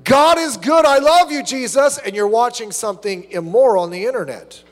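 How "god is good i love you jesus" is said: high, loud sing-song fake devotion; mock a hypocrite's praise; hammed-up fake worship; mock pious. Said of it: "being immoral in the background".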